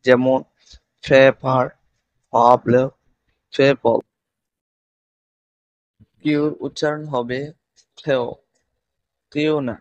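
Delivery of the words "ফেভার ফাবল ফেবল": "ফেভার, ফাবল, ফেবল" with a puffed start from both lips; two-lip P. Shown as a demonstration. Teacher giving P examples, lip-puffed "ফেভার, ফাবল, ফেবল". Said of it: "এই দুই ঠোঁট দিয়ে উচ্চারিত হবে".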